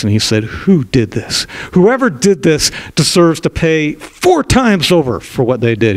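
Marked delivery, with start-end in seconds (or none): 0.4-1.5 slow stern anger. Acted. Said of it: "David becomes furious". 1.7-5.4 retold verdict. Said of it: "David becomes furious". 5.4-5.9 slow stern anger. Acted. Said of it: "David becomes furious".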